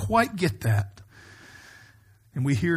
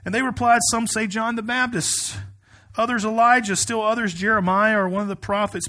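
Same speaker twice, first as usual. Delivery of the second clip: raised, emphatic pulpit reading voice; scripture reading; 4 semitones higher, 3 dB louder than usual. Acted. Pastor reading the Gospel to his congregation, emphatic scripture reading. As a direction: read it out firmly to a congregation.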